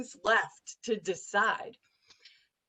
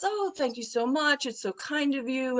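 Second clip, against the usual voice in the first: lightly voiced polite executive, pitched up; gracious reply; 3 semitones higher than usual. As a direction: mimic a gracious thank-you lightly.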